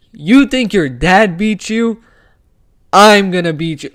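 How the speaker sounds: lightly acted trash talk, slowed and punched; Dricus du Plessis. Fan quoting a fighter's trash talk as an example, lightly acted taunt. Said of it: "Let's give some examples".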